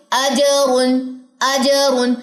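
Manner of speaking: अजरुन with a clear अ and a bouncing ज; अजरुन read slowly, the ज crisp; model reading. Shown as a demonstration. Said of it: "अब इसको सुनिए". (सही उच्चारण, अजरुन)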